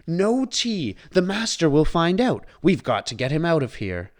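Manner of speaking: high, loud frantic clock; urgent, rushing to get him out; panicked. A narrator's reading. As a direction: panicky Cogsworth. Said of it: "yelled Cogsworth".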